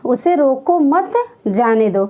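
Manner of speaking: short break between मत and जाने दो; pause after मत. Shown as a demonstration. Teacher repeating the example, pausing after मत. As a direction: join रोको to मत, then pause briefly. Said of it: "देखिए जी इसका उदाहरण है".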